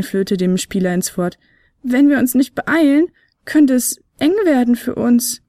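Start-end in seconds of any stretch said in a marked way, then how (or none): 1.8-5.4 higher, louder, urgent small flute voice; alarmed little flute. Acted. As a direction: walls closing in, hurry. Fionella alarmed.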